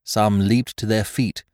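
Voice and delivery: usual speaking voice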